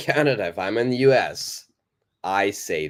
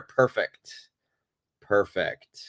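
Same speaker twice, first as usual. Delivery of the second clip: whispered praise; slower than usual. Real, not acted. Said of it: "praising student".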